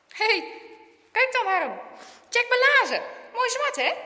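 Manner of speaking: put-on high, loud boyish glee; lively, pleased exclaiming; excited showing off. A narrator's reading. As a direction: call your friend to look. Boy shows off muddy boots.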